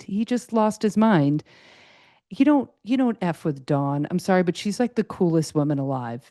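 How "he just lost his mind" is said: each word slowed and weighted; slower, heavier second telling; slow emphatic repeat. Real, not acted. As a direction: drag it out to drive the point home.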